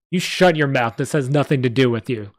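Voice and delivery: mild mock yell at Rapez; the goblin shouts Rapez down, a mild mock yell. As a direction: snap at him to shut up. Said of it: "the goblin yelled".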